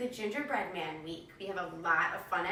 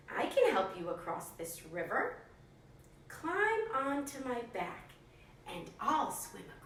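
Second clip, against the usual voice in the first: sneaky fox; 2 semitones higher, 5 dB quieter than usual. Acted. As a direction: lure him in quietly. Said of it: "a sneaky fox appeared".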